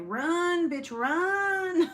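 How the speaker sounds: shrieked warning, very high and loud; yelling. Retold or imitated. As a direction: scream at her to run, half laughing. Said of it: "I told Gabby, I was like".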